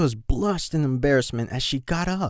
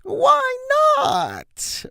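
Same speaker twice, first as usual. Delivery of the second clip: much higher, louder whining plea; high-pitched whine; 4 dB louder, much slower than usual. Acted. Colt begging his brother, high-pitched whine. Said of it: "whined in a high-pitched voice".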